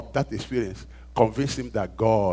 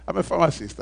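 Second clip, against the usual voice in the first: laughing; 3 semitones higher than usual. Shown as a demonstration.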